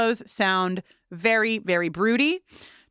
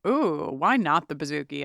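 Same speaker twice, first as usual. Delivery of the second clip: mock catchphrase; 5 semitones lower than usual. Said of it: "as I always say".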